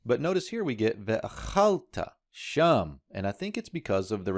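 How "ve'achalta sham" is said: "ve'achalta sham" with the stress pulled back onto "chal"; "ve'a-CHAL-ta sham", not stressing the final "ta"; shifted accent. Shown as a demonstration. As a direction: punch CHAL high in "ve'achalta". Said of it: "causes the accent shift here".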